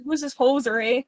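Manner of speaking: hoser Canadian twang; Canadian accent. Acted. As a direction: play a Canadian judge. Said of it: "I wanna hear Shroob's Canadian accent".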